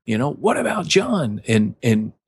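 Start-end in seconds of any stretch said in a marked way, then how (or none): 0.3-1.4 mock jealous Peter. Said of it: "same with Peter".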